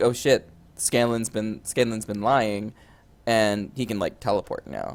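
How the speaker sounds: plain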